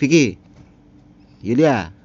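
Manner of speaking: loud calling-out voice with Indonesian home-village accent. Demonstrating how people in your home village call someone, in an Indonesian home-village accent. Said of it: "aksen-aksen kayak gitu bener-bener aksen aksen di kampung gua".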